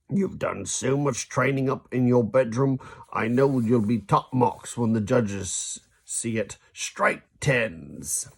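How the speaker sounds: lightly voiced proud dad; a hint of an encouraging father; dad's voice. Proud dad cheering his son on the drive, lightly voiced.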